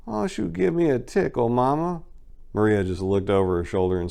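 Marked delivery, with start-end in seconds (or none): 0.1-2.0 much higher, wasted party guy calling out; drunk friend's call. Acted. Sprawled hood friend calling after Maria, high and sloppy. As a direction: toss it after her from the couch, sloppy and high.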